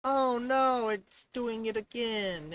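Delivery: real dismay as the bug returns. Real, not acted. Code fails again on screen.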